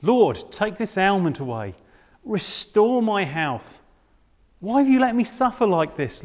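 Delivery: desperate, begging cry to the Lord; a man at the end of his rope begging God; pleading prayer. Acted. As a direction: plead with God, worn out and aching. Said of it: "What might that prayer have sounded like?".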